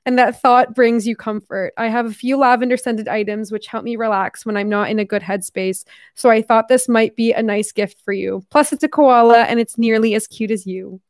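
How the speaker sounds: amateur put-on Australian accent. Shown as a demonstration. Reading the note about the koala gift, put-on Australian accent. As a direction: read it out in an imitation Australian voice. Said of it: "can't even do this accent anymore".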